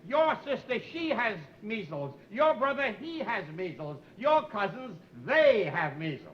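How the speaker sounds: correcting grammar like a prim teacher; stern grammar lesson, word by word; prissy strict schoolteacher voice. Shown as a demonstration. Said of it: "You don't know your English".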